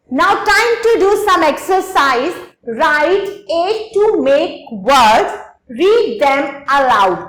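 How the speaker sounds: slow, deliberate reading of the workbook task; slow instruction read. Acted. Teacher reads the English task aloud slowly to the children.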